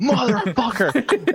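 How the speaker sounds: long, drawn-out high curse; retold outrage. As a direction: imitate a man realizing he's been had. Ransacked man spots the culprits.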